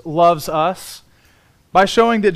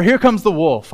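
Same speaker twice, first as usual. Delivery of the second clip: louder attempt at a British narrator; David Attenborough; 4 dB louder than usual. Preacher imitating a wolf documentary's narrator, British accent. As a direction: have another go at a British accent. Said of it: "he says in this wonderful British accent".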